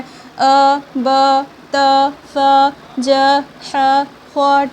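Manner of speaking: "अ, ब, त, फ, ज, ह, ख" one by one, each vowel kept short; short unstretched vowels. Shown as a demonstration. Teacher showing how to read zabar, short separate syllables. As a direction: separate syllables "अ, ब, त, फ, ज, ह, ख", none drawn out. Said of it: "इस तरीके से पढ़ना है".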